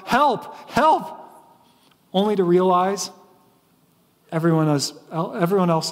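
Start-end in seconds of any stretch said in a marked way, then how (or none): 0.1-1.2 high-pitched mock cry; crying out for help. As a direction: call out for rescue, pitch jumping up. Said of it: "and we cry out".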